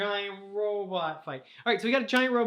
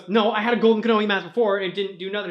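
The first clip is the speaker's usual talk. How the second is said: heated protest; 3 semitones higher, 6 dB louder, faster than usual. Acted. Tahu argues with the mask.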